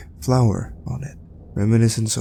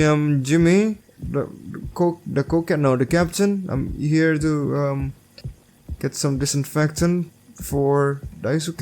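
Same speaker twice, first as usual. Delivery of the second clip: put-on nervous young man; 6 semitones higher than usual. Player voicing Jimmy's nervous dialogue.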